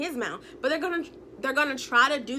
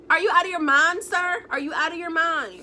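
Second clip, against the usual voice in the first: indignant scolding; 4 semitones higher than usual. Acted. Indignant scolding of absent liar.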